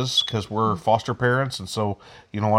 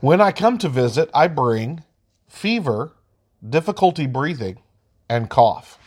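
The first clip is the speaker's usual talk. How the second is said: put-on lightly higher virus voice for kids; cute germ voice; 3 semitones higher than usual. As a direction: play a friendly virus talking to little kids. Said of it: "the first graphic is".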